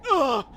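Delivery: stubbed toe. Retold or imitated. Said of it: "he went".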